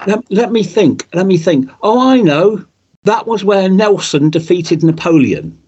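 put-on lightly done Scouse accent on a puzzled dad; a hint of a Merseyside accent, pondering then sure. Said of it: "I know I can't do the accent".

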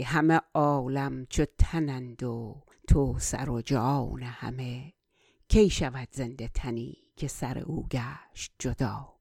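flowing Persian verse recitation; poem recitation. Acted. Recites Persian verse before translating.

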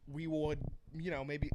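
flat robot voice, barely put on. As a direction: talk like a stiff robot. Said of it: "Go ahead and start talking like a robot".

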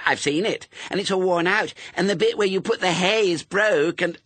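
put-on very high, loud little-girl accusation; snapping. A narrator's reading. Little sister exposes Pepper's fib, snapping. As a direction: pile up the complaints in an indignant child voice. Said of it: "snapped her sister".

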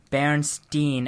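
Berenstein said slowly, ending in "steen"; spelling-based pronunciation. Shown as a demonstration. Speaker explaining the spelling in their mind, Berenstein drawn out as "steen". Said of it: "as in E I N".

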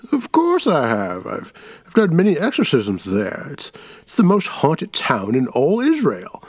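put-on defensive old man. Aben defends.

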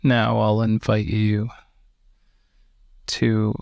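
calm, unhurried meditation guide with long pauses; slow, even-toned breathing instructions; guided meditation. Real, not acted. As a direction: guide them gently into relaxation, leaving space between phrases.

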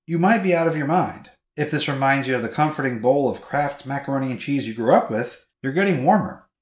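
perky ad-copy read; reading ad copy aloud. Shown as a demonstration. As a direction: read the blurb with big rising inflections. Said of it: "your inflections were not doing it quite justice".

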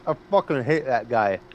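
talking around an ice cube; chewing ice while talking; ice in mouth. Real, not acted. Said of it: "Sorry, I'm chewing on an ice cube".

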